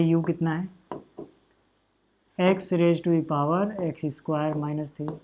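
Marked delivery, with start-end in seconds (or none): 2.4-5.1 very slow, spelled-out dictation pace; very slow board dictation. Shown as a demonstration. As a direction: stretch each term while writing. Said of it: "teacher dictating slowly".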